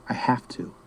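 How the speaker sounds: put-on a small, gruff half-whispered boy's voice; a boy's gruff whisper of "I have to"; gruff little voice. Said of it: "he said in his gruff little voice".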